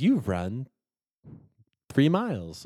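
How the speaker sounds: nice little slow, sing-song British voice. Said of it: "nice little British voice that comes in and says".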